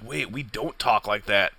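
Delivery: stunned realization. Retold or imitated. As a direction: let it dawn on you quietly. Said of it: "And you're just like".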